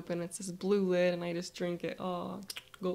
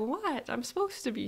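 surprised; 5 semitones higher than usual. Acted. Teased as little kid.

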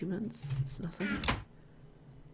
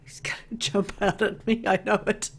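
nervous whisper. Real, not acted. Expecting a jump scare.

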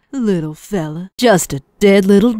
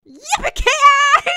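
high, drawn-out cowboy cry; triumphant cowgirl hollering; slow yippee-ki-yay; slower than usual. Acted. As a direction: stretch it out like a rodeo call. Victory cry.

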